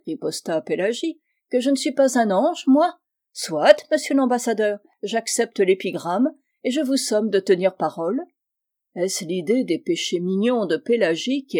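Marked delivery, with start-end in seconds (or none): 1.5-8.2 raised, emphatic retort of a spinster; lightly voiced tart spinster, challenging. Pélagie retorting to the diplomat, lightly tart and challenging. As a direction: throw the challenge back at him, a little higher.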